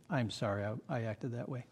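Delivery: very soft, low admission; contrite apology. Acted. Apologizing to the person you wronged, hushed and contrite. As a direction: humbly own up, voice dropped. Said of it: "go up to that person and say".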